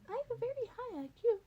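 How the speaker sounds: chirpy self-satisfied boast; smug Nezu. Acted. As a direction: toss it off smugly. Nezu brags in story.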